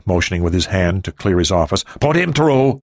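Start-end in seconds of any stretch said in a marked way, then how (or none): 2.0-2.8 higher, slow, drawn-out order; harried boss. A narrator's reading. Ri tells receptionist to connect the President, harried. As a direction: draw it out, pitched up.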